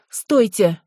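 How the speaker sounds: sharp cry to stop someone; yelling. Acted. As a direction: shout it after them. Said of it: "долетел в спину вопль Ассии".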